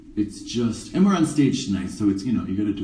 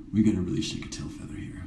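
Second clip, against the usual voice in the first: hurried whisper; 3 semitones lower, 6 dB quieter, faster than usual. Real, not acted.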